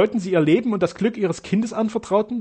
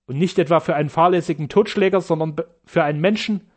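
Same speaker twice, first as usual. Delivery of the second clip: raised, urgent accusation; agitated; 4 semitones higher, 3 dB louder than usual. Acted. Sternau agitated, calls the surgeons murderers, raised voice. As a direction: accuse them with rising heat. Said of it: "meinte Sternau ganz erregt".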